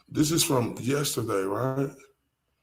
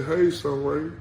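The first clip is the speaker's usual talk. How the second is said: put-on model phrase for child; 2 semitones higher, slower than usual. Shown as a demonstration.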